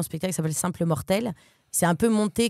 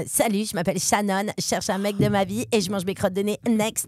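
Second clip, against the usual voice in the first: put-on airhead teen girl voice. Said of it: "Voix de pétasse".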